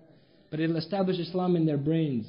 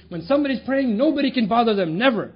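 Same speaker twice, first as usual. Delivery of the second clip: firm fatherly rule; 4 semitones higher, 5 dB louder than usual. Retold or imitated. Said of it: "he used to say".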